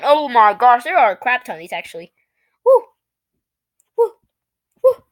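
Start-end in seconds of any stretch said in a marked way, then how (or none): 2.6-5.0 short woos. Acted. Reacts to the long list.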